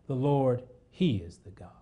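hushed whisper of the same declaration; a reverent whisper. Shown as a demonstration. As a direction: breathe the words, almost silent.

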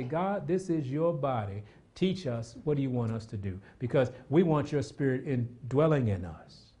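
quiet prayer. Pretend. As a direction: pray it quietly, like talking to God. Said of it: "go ahead and say".

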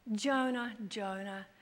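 tender, patient address, softening on the repeat; gently acted divine reproach, falling away; loving, merciful God. God turning to upset Jonah, gently loving. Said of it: "our loving, merciful God".

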